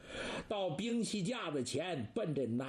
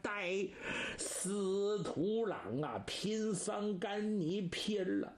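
monk's loud challenge; 3 semitones higher than usual. Acted. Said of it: "高声喊喝".

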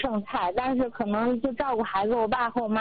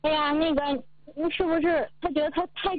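lightly voiced mother, pitched higher; 妈妈的猜疑; 4 semitones higher than usual. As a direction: imitate a mother's doubting question, higher. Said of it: "然后我妈她就觉得说". (学妈妈猜疑的口气)

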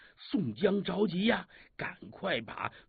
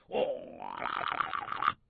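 imitated battle cry; 5 dB quieter, much faster than usual. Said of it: "呐喊声就响起来了".

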